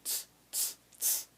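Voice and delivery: "ts" as a single voiceless hissed burst; fuse "ts" into one consonant, no vowel; one sound. Shown as a demonstration. Teacher showing T S is one sound, unvoiced "ts". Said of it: "T S is one sound".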